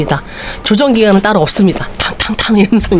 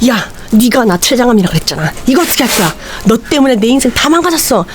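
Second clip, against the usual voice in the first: rising heated accusation, climbing to a high yell; patient yelling at the doctor; angry ranting; 4 semitones higher than usual. Retold or imitated. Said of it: "막 소리 지르니까".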